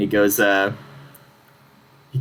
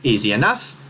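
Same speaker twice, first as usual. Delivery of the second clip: kenku voice. Acted. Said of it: "The noise kinda goes".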